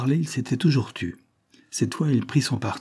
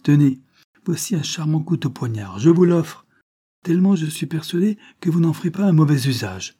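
raised, loud taunting offer; mocking; 5 semitones higher, 4 dB louder than usual. A narrator's reading. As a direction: goad him with scornful confidence. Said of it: "d'un ton moqueur". (raillerie provocante)

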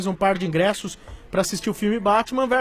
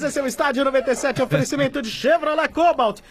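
ad read; 3 semitones higher than usual. Acted. Sponsor ad read.

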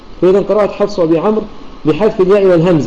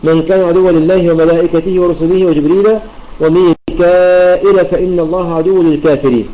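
measured, slightly slow tajweed recitation; تلاوة مجودة; Quran recitation. Acted. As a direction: chant the verse in recitation style. Recites the verse.

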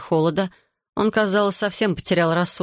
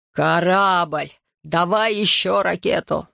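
joyful shout; slower than usual. A narrator's reading. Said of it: "радостный крик Филлипсона".

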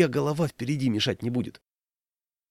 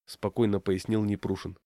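plain reading voice

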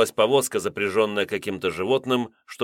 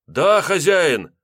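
slow, high, loud devoted answer; loud vow; 9 semitones higher, 6 dB louder, much slower than usual. A narrator's reading. Henchmen swearing loyalty to their master, loud. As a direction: shout the oath, drawn out.

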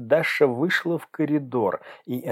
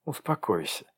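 soothing; 7 dB quieter than usual. Acted. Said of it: "успокаивающе ответила".

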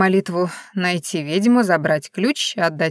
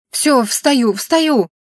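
snapped out; 5 semitones higher, much slower than usual. Acted. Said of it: "рявкнула я".

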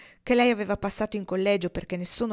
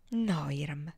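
firm; 4 semitones lower, 5 dB quieter, slower than usual. A narrator's reading. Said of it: "rispose lei con fermezza".

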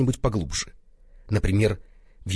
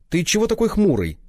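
giggling; 11 semitones higher, 4 dB louder than usual. A narrator's reading. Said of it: "хихикнул опоссум".

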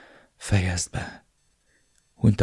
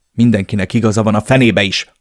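louder exasperated outburst; 4 dB louder than usual. Acted. The narrator bursts out at Elena, frustrated and louder. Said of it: "fakadtam ki".

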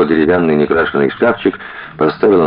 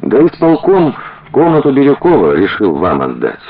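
quick eager blurt; 9 semitones higher than usual. A narrator's reading. Тая blurts the news to Коля and Маша, eagerly. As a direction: burst out with the news. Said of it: "выпалила Тая".

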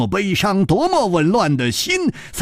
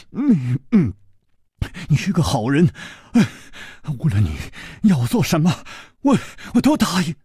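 sobbing; faster than usual. Acted. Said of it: "一剑抽泣地说".

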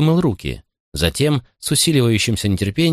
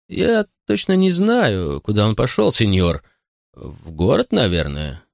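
slow butler voice. Acted. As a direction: choose each word carefully.

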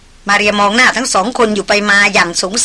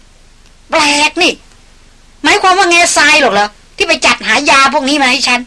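higher, surprised exclamation; exclaiming; 6 semitones higher than usual. A narrator's reading. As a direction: cry out in surprise. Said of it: "ดารินร้องขึ้น".

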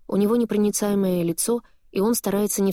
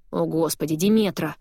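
irritated. Acted. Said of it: "раздражённо произносит Алекс".

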